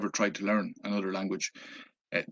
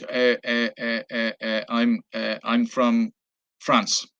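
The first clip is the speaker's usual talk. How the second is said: hesitant; slower than usual. Retold or imitated. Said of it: "hesitant. He wasn't very sure".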